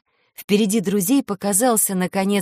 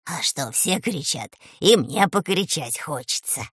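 good-natured; 3 semitones lower than usual. Acted. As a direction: answer kindly, no offence taken. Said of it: "добродушный".

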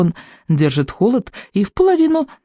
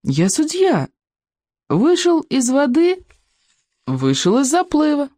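higher, slow dreary official voice; gloomy judge; 9 semitones higher than usual. A narrator's reading. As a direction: drone it like a glum referee.

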